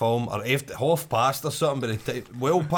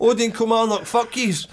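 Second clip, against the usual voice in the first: mock curse; 7 semitones higher, 4 dB louder than usual. Cursing the cinema while retelling.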